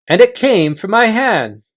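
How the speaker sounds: chief voice, boasting. Acted. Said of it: "the chief voice continued".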